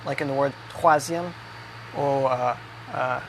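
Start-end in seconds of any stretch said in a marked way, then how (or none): 0.7-1.3 troisième with a throaty French R. Shown as a demonstration. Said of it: "the French R sound".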